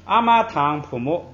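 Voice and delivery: 堂 with a clear aspirated puff, said properly; the careful, correct way; proper aspirated form. Shown as a demonstration. Teacher modelling the correct form for students, aspirated. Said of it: "咱们就正正经经的，都堂就行了".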